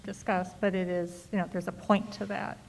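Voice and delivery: muffled behind a mask; talking through a face mask; through an n95 mask. Real, not acted. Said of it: "I'm wearing an N ninety-five right now".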